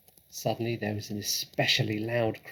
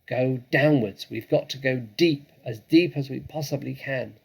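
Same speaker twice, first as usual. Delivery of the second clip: urgent order; 3 semitones higher, 5 dB louder than usual. Acted. Father urges family digging.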